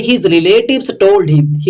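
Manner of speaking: very slow English read. Shown as a demonstration. Teacher reading the English sentence slowly. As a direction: read it word by word. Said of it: "teacher reads English line".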